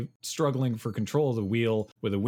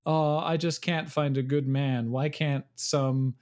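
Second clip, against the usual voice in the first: stilted delivery; 5 semitones higher than usual. Retold or imitated. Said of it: "it's very stilted delivery".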